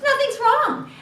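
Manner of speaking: very high, breezy cover-up voice; cheerful denial. Acted. Grandmother hides her troubles from somebody asking, high forced cheer. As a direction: brush it off in a high chirp. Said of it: "holds everything in".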